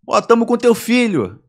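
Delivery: high, slow kidnapper impression; mock kidnapper threat. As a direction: announce it loudly like a kidnapper. Retold kidnapper's threatening phone call.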